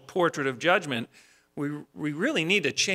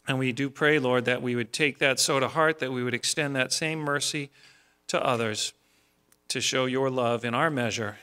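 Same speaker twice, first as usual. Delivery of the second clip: measured, earnest spoken prayer; pastoral prayer. Real, not acted. Leads congregation in closing prayer.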